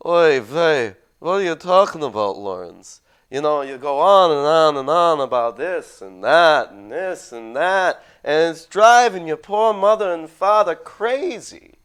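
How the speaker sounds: put-on loud, high Yiddish-inflected Jewish accent; hammed-up Jewish parent nagging in Yiddish accent. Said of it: "a good Jewish accent".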